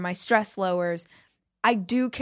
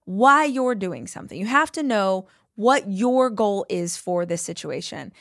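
lightly voiced Arnold, slow and firm; slow Arnold impression; slower than usual. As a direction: mimic Arnold laying down the rule, slowly. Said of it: "he was saying".

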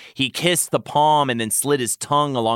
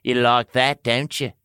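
teasing. Acted. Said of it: "Tamlin teased".

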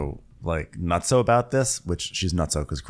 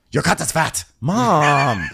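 snarky; 8 semitones higher, 4 dB louder, slower than usual. Retold or imitated. Retold snarky French line.

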